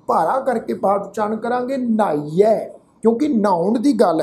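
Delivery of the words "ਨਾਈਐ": ਨਾਈਐ with a half h after the n; weighted pronunciation. Shown as a demonstration. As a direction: say ਨਾਈਐ with a heavy n, like "nhaiye". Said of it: "ਅੱਧਾ ਹਾਹਾ ਲਗਾ ਕੇ ਪਾਠ ਉਚਾਰਨ".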